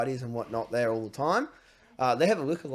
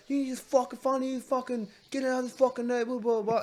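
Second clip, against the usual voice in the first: mock angry neighbour; 11 semitones higher than usual. Neighbour abuse at gate.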